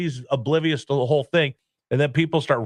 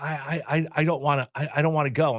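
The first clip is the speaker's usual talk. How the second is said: play-acted jittery, nervous, stuttering, reluctant tone; 3 dB quieter than usual. Retelling how his dad reacted to being taken to the ballpark, imitating his nervous dad. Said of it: "and he would be nervous".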